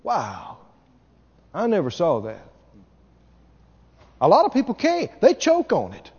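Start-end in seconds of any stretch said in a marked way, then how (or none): 0.0-2.4 hushed, much softer wow; gently impressed, almost under the breath; a quiet, amazed wow; softly impressed. Shown as a demonstration. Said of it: "look at them and go".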